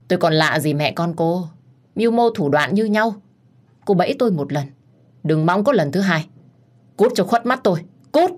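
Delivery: angry scolding. Acted. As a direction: drive her out in anger. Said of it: "nghiến răng nghiến lợi mắng". (mắng giận dữ)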